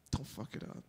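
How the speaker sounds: mock-threatening whisper; whispered warning. Aside warning to the stepdad.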